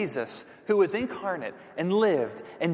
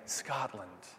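dreamy travel pitch; slower than usual. Pretend. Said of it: "I can encourage you by saying".

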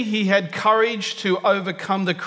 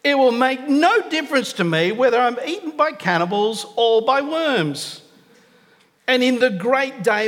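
bold defiance; 4 semitones higher than usual. Retold or imitated. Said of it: "I'll put my tone on it".

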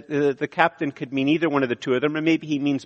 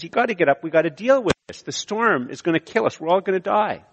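urgent captain; 5 semitones higher than usual. Acted. Captain urging Jonah in storm.

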